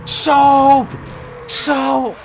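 high, put-on yell; soap call. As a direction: holler it as a running bit. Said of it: "Do the soap thing".

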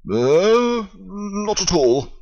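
high, slow gushing; Lionel Trugg. Acted. Lionel Trugg answers Paddington at the garden show, high gushing. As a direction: gush politely.

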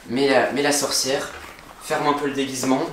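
hushed, careful voice; whispering while hiding. Real, not acted. Dressing the witch quietly.

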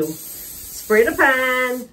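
drawn-out mock-obedient repeat; slow deliberate echo; obedient assistant. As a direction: repeat the order like a dutiful helper. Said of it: "I'm her assistant".

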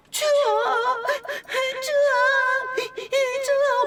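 put-on high crying baby whimper. Sister whimpering in a baby voice at night, high crying. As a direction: whimper like a freezing child. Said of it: "막 이러는 거야".

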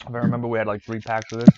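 chewing ice while talking; mouth full. Real, not acted. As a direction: talk through a mouthful of ice. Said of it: "I'm chewing on ice".

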